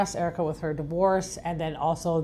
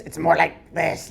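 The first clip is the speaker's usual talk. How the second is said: a hint of a slow echoing steroid voice; 3 dB louder, slower than usual. Shown as a demonstration. Showing how a steroid user sounds, slow and lightly put on. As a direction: lightly demo a roided voice, slow. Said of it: "like, steroids' voice".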